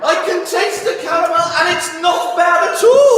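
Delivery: laughing, loud, high and excited; delighted laughing. Real, not acted. Host tastes caramel, delighted.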